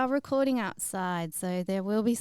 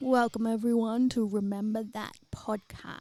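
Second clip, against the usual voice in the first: unhurried, measured voice. Doing the other speaker's podcast welcome on request: impression of the other speaker. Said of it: "your impression of me".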